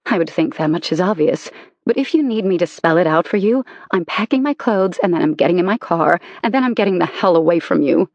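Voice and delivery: clipped scorn building to a rush; cold anger. Acted. Wife angrily leaving her husband.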